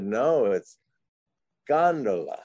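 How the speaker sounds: gondola stressed on the first syllable, GON-do-la; mock-angry correction. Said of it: "got quite angry with me".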